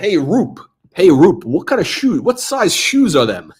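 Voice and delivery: forward put-on Philadelphia accent. Retelling what a guy from Philadelphia said to Rupert, in a Philadelphia accent. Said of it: "This guy's from Philadelphia, so he sounds like".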